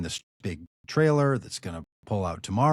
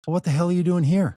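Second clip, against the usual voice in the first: retold angry demand, higher and louder; 9 semitones higher, 5 dB louder than usual. Owner catching campaign crew squatting on his lot, angry. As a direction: play the furious owner catching trespassers.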